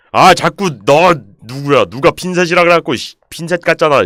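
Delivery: 높고 크게 따지기; 범인을 찾듯 버럭 다그치기. Real, not acted. Scolds whoever said tweezers. (성난 호통)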